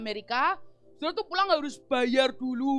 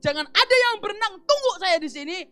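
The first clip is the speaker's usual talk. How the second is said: loud, higher call across the water; shouting to the boat; 7 semitones higher, 8 dB louder than usual. Retold or imitated. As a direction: yell the orders to the boat. (berteriak lantang ke arah kapal)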